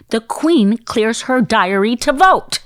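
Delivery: acted-out emphatic boast; emphatic producer. Acting out British producer's grand claim.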